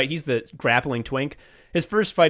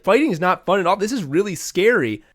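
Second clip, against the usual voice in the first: higher and louder mock panic; mock scared; 6 semitones higher, 4 dB louder, faster than usual. Fighter realizes mid-choke he might die, mock scared and loud. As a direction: ham up the fighter's terror, pitched up.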